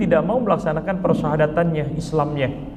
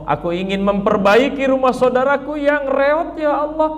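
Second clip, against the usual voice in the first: pleading sinner. Acted. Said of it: "dengan menyebut".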